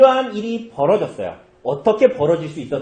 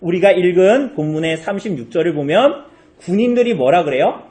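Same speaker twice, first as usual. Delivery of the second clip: ordinary talk, nothing marked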